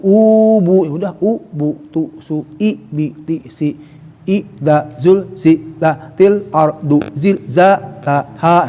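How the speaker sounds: syllable by syllable, separated; spelling syllables. Shown as a demonstration. Teacher spelling verse syllables for beginners. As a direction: read each syllable apart. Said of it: "batasan belum ada pembantu".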